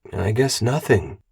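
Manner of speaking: slow, deflated resignation; defeated. Acted. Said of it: "Wheel four sounded defeated".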